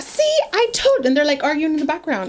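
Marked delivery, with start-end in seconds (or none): 0.0-1.1 mimicking the wife. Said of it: "So she's like".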